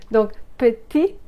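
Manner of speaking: petit with a tss sound after the t, Québécois style; Québécois affricated petit. Shown as a demonstration. Teacher demonstrating the Québécois petit to learners, affricated. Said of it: "C'est quand on dit petit".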